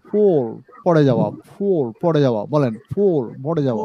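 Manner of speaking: "ফল" said with a round o; rounded vowel. Shown as a demonstration. Teacher showing students the rounded "ফল". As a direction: round the lips on "ফল". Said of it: "গোল করে উচ্চারণ হবে".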